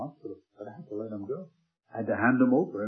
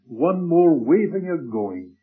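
dramatic build; 4 semitones higher, 9 dB louder, slower than usual. Acted. Dramatic climax of the reassurance.

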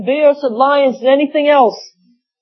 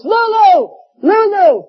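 shouted name; 8 semitones higher, slower than usual. Retold or imitated. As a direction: yell it out like a madman. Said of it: "he shouted to the top of his voice".

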